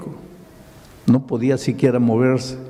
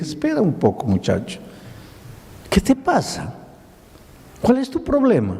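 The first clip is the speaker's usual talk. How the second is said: firm rebuke that jumps higher on the questions; indignado; 8 semitones higher than usual. Retold or imitated. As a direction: lose patience and confront the boy. Pastor pierde la paciencia. (el pastor reprende al muchacho, con voz alzada e indignada)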